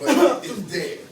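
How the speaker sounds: high, loud laugh through the words. Real, not acted. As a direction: laugh it out as you admit it. Admits emotion while laughing.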